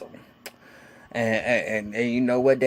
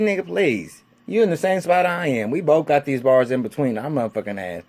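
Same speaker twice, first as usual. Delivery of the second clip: scornful comeback; 4 dB louder than usual. Retold or imitated. Inmate answering a threat from the next cell, scornful. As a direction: brush off the threat with force.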